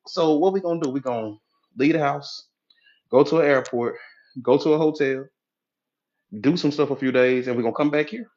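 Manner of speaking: lightly acted reluctant husband; unexcited husband. Husband questioning the vacation plans, mildly unenthusiastic. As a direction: list the plans in halting pieces, unimpressed. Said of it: "your husband is not excited".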